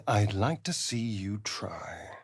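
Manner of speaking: slow, breathy threat under the breath; menacing whisper. Acted. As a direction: whisper it like a promise of violence. Vampire taunting an enemy.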